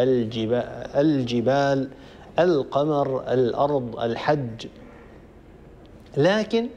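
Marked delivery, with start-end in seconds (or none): 0.0-4.7 الجبال، القمر، الأرض، الحج each with the article's L clearly sounded; clear lam. Shown as a demonstration. Tajweed teacher lists moon-letter examples, L clearly heard in الجبال، القمر، الأرض، الحج. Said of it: "لام مظهرة تظهر".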